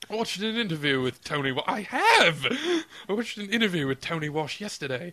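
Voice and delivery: put-on posh British accent. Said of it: "I have gone posh British".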